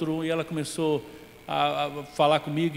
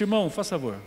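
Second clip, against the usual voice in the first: soft, low, conciliatory; apologising to the brother after the fight, softer and lower; humble apology; 4 semitones lower, 4 dB quieter than usual. Retold or imitated. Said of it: "eu disse".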